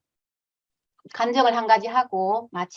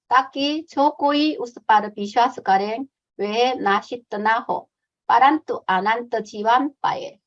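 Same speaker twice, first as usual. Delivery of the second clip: slow, measured Hindi Bible verse; Hindi recitation; slower than usual. Shown as a demonstration. Missionary reciting John 3:16 in Hindi, slow and measured. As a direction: recite it slowly in Hindi, word by word. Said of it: "힌디어로 한번 암송해 보도록 하겠습니다".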